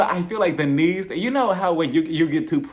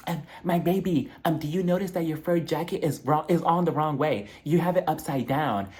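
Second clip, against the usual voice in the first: lightly imitated socialite with a fussy tip; a hint of put-on fashionista; Dorit. Stopping Denise about her fur jacket, lightly imitated. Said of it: "Miss Versace, Dorit, she stops her".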